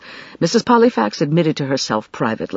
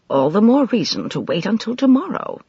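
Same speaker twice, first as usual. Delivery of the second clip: calm; 7 semitones higher than usual. A narrator's reading. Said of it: "told her calmly".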